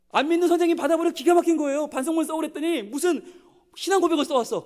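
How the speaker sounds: high, loud amazement; astonished. Retold or imitated. Preacher acting the unbelieving teacher's astonishment. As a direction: blurt it out, stunned.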